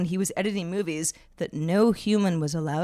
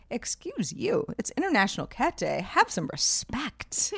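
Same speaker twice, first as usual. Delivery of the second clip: indignant scolding; 3 semitones higher, 5 dB quieter than usual. Retold or imitated. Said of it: "And then I was like".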